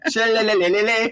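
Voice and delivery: high, stretched-out babbling of shillelagh; drawn-out singsong play on the word; playful echo. Pretend. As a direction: trill the end of shillelagh into silly repeated syllables. Playfully echoing the funny word.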